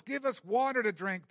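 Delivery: insistent, lightly acted complaint; mock demand. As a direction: demand it on behalf of a complaining crowd. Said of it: "they demanded".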